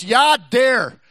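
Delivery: lightly imitated northern Wisconsin "ya dare"; Yooper accent. Preacher mimics Upper Peninsula talk, northern Wisconsin accent. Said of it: "You go up to northern Wisconsin".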